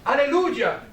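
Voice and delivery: mock-joyful exclamation of praise; joyful hallelujah. Hindu greeting the New Zealander at sea, joyful hallelujah. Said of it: "con una voz llena de gozo".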